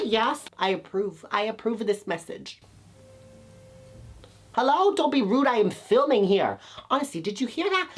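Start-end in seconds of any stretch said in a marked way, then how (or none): 4.5-7.9 high, sassy indignant call. Real, not acted. Vlogger interrupted while filming scolds someone, indignant. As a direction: scold the noisy neighbour.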